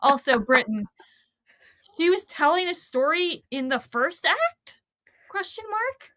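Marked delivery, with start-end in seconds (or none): 2.0-6.1 mock question, dry and pointed; sarcastic. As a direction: say it with heavy sarcasm. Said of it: "I'm being sarcastic now".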